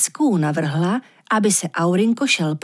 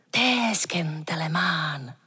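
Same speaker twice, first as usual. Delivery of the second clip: unvoiced whisper of Teskentelemán; hushed mysterious whisper; 4 semitones lower, 7 dB quieter, slower than usual. A narrator's reading. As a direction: breathe the word Teskentelemán like a secret. Recalling a strange word.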